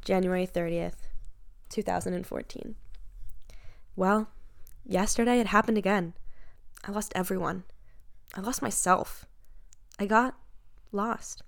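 hammy dramatic reading. Pretend. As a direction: read it like a tragic diary. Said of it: "read it dramatically".

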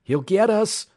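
high, loud cry of alarm; alarmed exclamation. A narrator's reading. Alex warns the oiler as the runner gains, alarmed exclamation. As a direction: exclaim it in alarm, pitch shooting up. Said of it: "Alex exclaimed".

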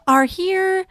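holiday voice. Acted. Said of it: "I love your holiday voice".

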